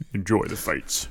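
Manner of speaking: put-on cool deep voice. Retelling what a guard at a door said: imitating a cool deep voice. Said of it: "He had a real cool, deep voice".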